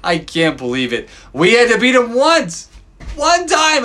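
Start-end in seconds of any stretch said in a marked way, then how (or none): 1.3-3.8 excited outburst. Real, not acted. Fan marvels they only needed one win, excitedly. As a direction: blurt it out, thrilled.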